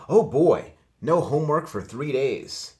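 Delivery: high, loud gleeful cheer; excited cheer. A narrator's reading. Girl cheering no homework, high and loud. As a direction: whoop it up over no homework. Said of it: "said Francine".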